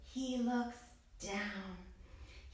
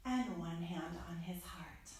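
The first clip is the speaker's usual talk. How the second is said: much softer, lower, near a whisper; soft bedtime voice; 5 semitones lower, 11 dB quieter than usual. Acted. Putting the child to sleep at the story's end, softly whispered. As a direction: wind it down like a lullaby.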